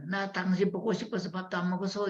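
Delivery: high-pitched wifely pining; affectionate longing. Acted. Wife to husband instead of complaining, affectionate longing. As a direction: tell him sweetly you missed him.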